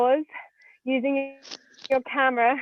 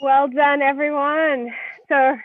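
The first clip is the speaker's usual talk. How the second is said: gasping between phrases; 2 semitones higher, slower than usual. Real, not acted. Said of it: "I'm out of breath".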